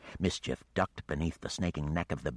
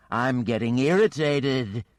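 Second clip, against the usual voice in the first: louder, much higher hammed-up weariness; mock weary dragon; 6 semitones higher, 7 dB louder than usual. The dragon mocks Geneva's attacks with hammed-up weariness. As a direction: sigh it out like a bored monster. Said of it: "putting on a show of weariness".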